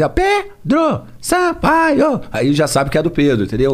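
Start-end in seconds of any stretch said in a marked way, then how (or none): 0.1-2.2 high, slow hype announcer; DJ drop voice. Retold or imitated. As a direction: call it out like a funk DJ tag. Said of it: "carimbando as músicas".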